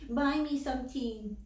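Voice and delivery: put-on high, drawn-out little-boy whine; imitating a whiny hungry child; whining. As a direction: whine to mama for a treat. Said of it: "he's whining, whining, whining to his mama".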